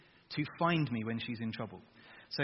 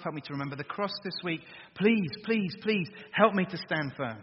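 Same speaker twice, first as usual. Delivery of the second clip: pleading prayer. Shown as a demonstration. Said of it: "your praying should be more like this".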